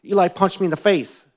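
high-pitched mock wail of a child; imitated crying. Crying girl tells her dad on her brother, mock tearful. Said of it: "She's crying. I can barely hear what she's saying".

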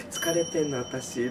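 slow, weary, under the breath; tired voice. Retold or imitated. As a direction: play it drained and tired. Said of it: "とか言って".

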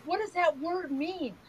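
put-on high-pitched puzzled child's question; imitating grandson. Six-year-old asking Nana about a word, imitated puzzlement. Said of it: "And he goes".

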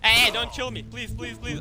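high-pitched playful begging; mock pleading. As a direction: plead for your life in a game, high and hurried. Begging opponent not to kill.

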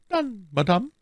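high, kindly smiling abbess. A narrator's reading. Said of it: "entgegnete die Äbtissin lächelnd".

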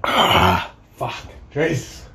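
pained gasp through burning lips; wincing at the sting; mouth burning from spicy food. Real, not acted. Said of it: "Fucking lips are on fire".

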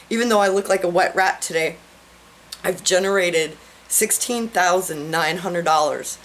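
trembling, moved voice; shaky voice. Real, not acted. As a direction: voice shaking with excitement. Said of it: "that makes my voice shake again".

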